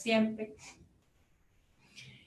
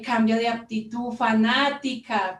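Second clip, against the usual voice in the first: slightly louder rebuke, last word slowly stretched; retold angry outburst; 5 dB louder than usual. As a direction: imitate an angry son's insult, stretching it out. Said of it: "él se enloqueció horrible". (imitando un reproche furioso)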